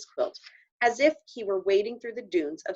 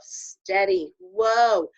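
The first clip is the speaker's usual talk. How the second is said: soothing; 3 semitones higher, 5 dB louder, slower than usual. Acted. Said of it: "saying like the cowboy himself".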